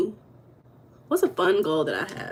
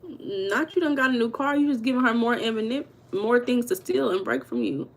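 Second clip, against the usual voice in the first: shady teasing; 2 semitones higher than usual. Retold or imitated. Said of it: "I said".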